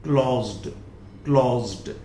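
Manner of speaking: क्लोज्ड said as "klozd", lightly voiced; क्लोज्ड ending on ड; final d sound. Shown as a demonstration. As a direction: repeat क्लोज्ड with a z before the d. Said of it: "क्लोज्ड नहीं होगा".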